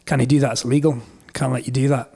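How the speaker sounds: Scottish officer, lightly imitated; wee Scottish accent. Police forbidding the slip road, in a wee Scottish accent. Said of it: "do the rest in a wee Scottish accent".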